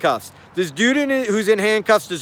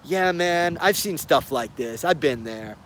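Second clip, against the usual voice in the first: low, soft cop voice; 5 semitones lower, 5 dB quieter than usual. Retold or imitated. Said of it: "Hendrix starts talking to him".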